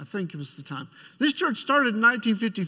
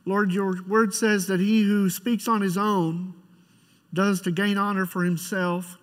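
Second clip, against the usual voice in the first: prayer; 3 semitones lower than usual. Acted. Pastor leads opening prayer.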